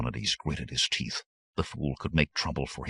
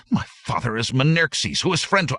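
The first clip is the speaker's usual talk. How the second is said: indignant protest; 10 semitones higher, 5 dB louder than usual. Acted.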